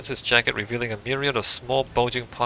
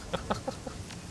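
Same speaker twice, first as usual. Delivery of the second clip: quick airy laugh under the breath; short soundless chuckle; breathless laugh; 11 semitones higher, 11 dB quieter than usual. Real, not acted. Player amused by the poisoning line, airy laugh.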